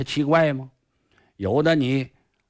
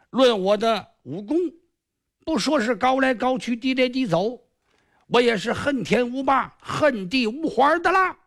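a lightly raised, smug villain's voice; boastful sly sorcerer; 6 semitones higher than usual. Acted. Sorcerer Kong Xiu boasting to the hero, smug and a bit higher. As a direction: crow over the island like a cocky magician.

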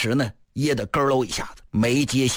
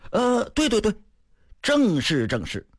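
eager guest's reply; 9 semitones higher than usual. Acted. Guest answers Fan about relation.

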